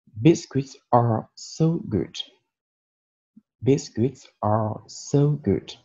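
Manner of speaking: "Biscuits are so good" read slowly, stress on "so"; slow example sentence. Shown as a demonstration. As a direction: read it slowly for learners to repeat. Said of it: "avec les exemples suivants". (phrase d'exemple lue lentement)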